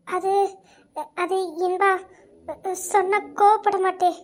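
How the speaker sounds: halting, reluctant lead-in; hesitant. Acted. Friend fears anger before confessing, hesitant. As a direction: break it up with nervous pauses.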